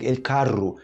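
"el carro" with trilled R; Spanish-style "el carro"; Spanish rolled R. Shown as a demonstration. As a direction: roll the R in "el carro". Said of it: "Tipo, em espanhol".

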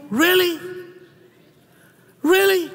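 mock indignant rant at the agent; retold outburst. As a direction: vent at her, slowing down at the end.

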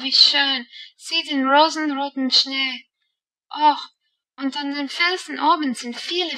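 high, loud wonder turning to distress; excited then dismayed. A narrator's reading. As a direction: cry out as the glow dies. Heidi watches the sunset fade. (erst begeistert, dann bestürzt rufend)

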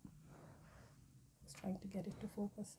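hushed whisper so no one wakes. Real, not acted. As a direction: whisper to keep the house asleep. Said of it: "I'm whispering".

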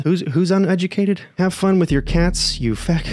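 high, mocking sneer; mocking disbelief. Mocking the insulting guy, high sneering voice. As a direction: scoff at him.

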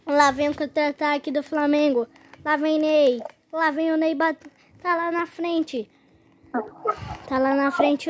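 rising live match call; play-by-play commentary. Acted. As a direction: build it like a match caller.

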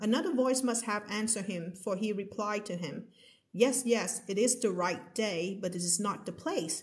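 slow story reading. A narrator's reading. Rereads passage slowly for class.

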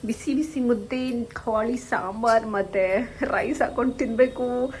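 slow, drawn-out relish; slow savouring. Real, not acted. Hungry vlogger describing the coming meal, slow and savouring. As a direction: linger over each dish.

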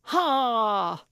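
loud, high gleeful "Ha!"; triumphant shout. A narrator's reading. Old woman shouting in triumph, pouncing on the fraud. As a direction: crow it mid-leap. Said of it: "Gertrude screamed".

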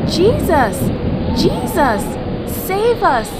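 loud, high storybook cry for rescue; crying out for help. A narrator's reading. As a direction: call out urgently over the storm. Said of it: "they cried".

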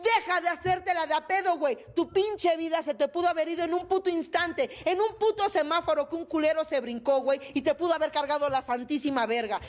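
high, emphatic urging, lightly acted; God's scolding voice. God telling the mother to live, emphatic scolding. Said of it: "es Dios diciéndome".

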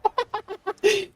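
high-pitched burst of giggling; high giggle. Real, not acted. Streamer laughs at the opponent, high giggle.

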